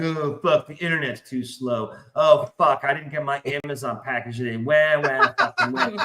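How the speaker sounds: a light mock whine about modern comforts; mocking whiny person. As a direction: whinge like a spoiled modern guy, half-joking. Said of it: "you're like".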